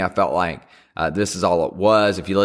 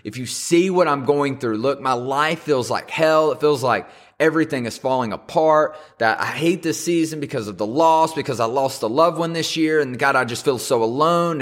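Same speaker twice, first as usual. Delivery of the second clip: higher-pitched, earnest plea; pleading upward to God; cry to God; 5 semitones higher than usual. Acted. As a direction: voice a desperate prayer without shouting. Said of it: "this cry that we have".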